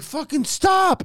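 high, drawn-out re-enacted yell; retold yell. Rider begging operators to stop the spinning, mock yelling. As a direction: yell it slowly, as if pleading with the ride operator. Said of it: "I'm, like, yelling to stop".

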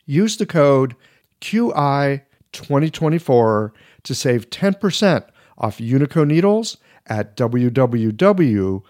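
polished, upbeat read of a sponsor spot. Acted. Host reads a needle sponsor ad to podcast listeners, polished ad voice. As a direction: sell the product smoothly to listeners.

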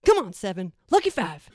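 loud cheer for a horse; cheering shout. Retold or imitated. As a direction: yell it from the stands.

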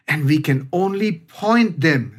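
very slow, with weight on "point"; slow right down to make "point" count; deliberate emphasis. Real, not acted. Speaker advising parents, deliberately stressing "point". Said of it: "I'm using the word very deliberately".

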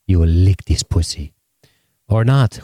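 deliberate mock Jamaican delivery; measured demands in a put-on Jamaican accent. Imagined lover giving the soldier orders, mock Jamaican accent. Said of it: "I don't know why he's talking Jamaican".

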